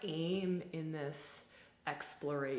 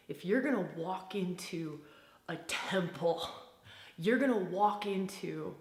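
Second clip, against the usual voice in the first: invocatory guided visualization; 4 dB louder than usual. Acted. Guide invites listeners to walk into the temple, invocatory. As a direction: draw them into the temple with long, stressed key words. Leads an imagined temple entry.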